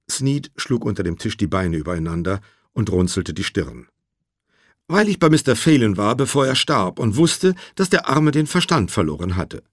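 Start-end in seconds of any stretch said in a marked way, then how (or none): 4.9-9.6 higher-pitched, earnest justification; slightly raised witness voice, insistent; lightly voiced pressed witness. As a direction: explain yourself as a witness under questioning. Voices the witness Sneed answering.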